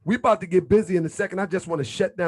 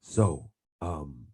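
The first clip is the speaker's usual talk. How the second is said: Grand Sheik radio voice; 10 semitones lower, slower than usual. Retold or imitated. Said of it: "He's like".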